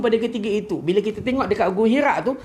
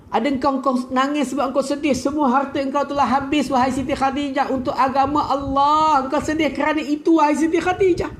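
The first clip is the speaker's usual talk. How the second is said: Prophet's tender question, pitch rising higher; 5 semitones higher than usual. Retold or imitated. The Prophet asks his weeping wife why, tender and higher. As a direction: ask her gently why she weeps, voice lifting. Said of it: "Nabi sallallahu alaihi wasallam tanya".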